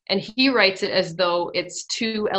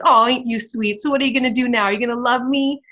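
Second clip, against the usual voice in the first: mock-sweet sneer, pitched higher and louder; bad guy mocking Petey's change of heart, taunting; 5 semitones higher, 4 dB louder, faster than usual. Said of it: "taunts him and says".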